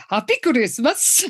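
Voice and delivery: tentative, hammed-up Swedish accent; attempted Swedish accent. Shown as a demonstration. Podcaster mimicking offstage Sven and Inga's greeting, attempted Swedish accent. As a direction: have a go at a rough Swedish accent. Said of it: "attempt to do a Swedish accent".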